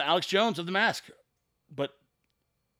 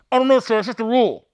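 higher, much louder, put-on driver voice; a loud, high, hammed-up driver shrugging off the question; mock Uber driver; 6 semitones higher, 13 dB louder, faster than usual. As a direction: play the driver as helpless and overeager. Uber driver voiced in retold exchange.

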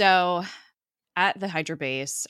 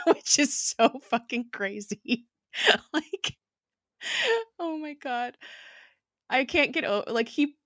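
excited disbelief; 10 semitones higher, 4 dB louder than usual. Real, not acted. Reacting to crazy line.

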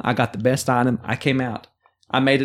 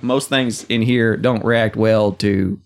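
Sean Connery impression; 3 semitones lower, slower than usual. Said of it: "Well, in Clank".

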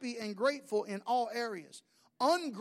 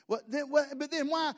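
put-on higher, pushy childish whine; insistent child; 6 semitones higher than usual. Child refusing to let daddy off, higher. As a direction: press the question like a kid. Child keeps asking why.

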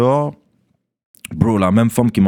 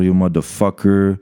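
mild mock insult; 2 semitones lower, slower than usual. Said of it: "elle commence à me dire".

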